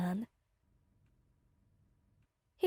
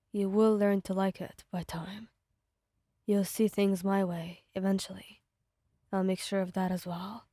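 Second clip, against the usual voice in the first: lower, menacing possessive voice; possessive villain; 3 semitones lower than usual. Acted. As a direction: claim her, cold and low. Bakugo voiced by narrator.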